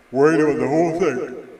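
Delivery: yawning through the words; words stretched by a yawn. Real, not acted. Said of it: "I don't know why I'm yawning".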